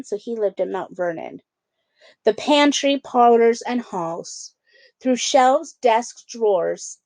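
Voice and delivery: lively storybook read-aloud; children's book narration. A narrator's reading. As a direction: read it like bedtime story time. Reads picture book to kids.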